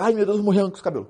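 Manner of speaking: imitating a student freaking out; aluno em pânico. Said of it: "não fica na pira agora". (pânico fingido de aluno)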